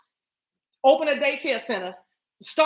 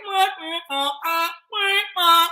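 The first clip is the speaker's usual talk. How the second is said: short high "mwah" and "uh" noises; staccato wordless noises, pitched up; imitated sound; 5 semitones higher, 4 dB louder, slower than usual. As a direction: re-enact little vocal pops. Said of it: "I went".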